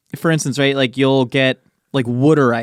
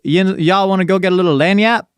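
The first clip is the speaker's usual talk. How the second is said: a lightly voiced Baton Rouge local, pitched higher; Baton Rouge guy; 7 semitones higher, 3 dB louder than usual. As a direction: toss off the invitation like the local guy. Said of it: "the guy's like".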